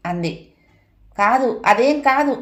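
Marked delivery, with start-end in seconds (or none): 1.2-2.3 higher, louder shouted denial; husband yelling a flat no at his wife. A narrator's reading. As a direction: shout it down hard. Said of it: "గట్టిగా అరిచాను".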